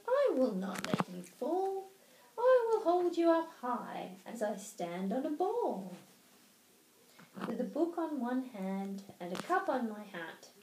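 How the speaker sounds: put-on cat boasting to the children, lively; boastful cat. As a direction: show off every trick. Narrator voices the Cat.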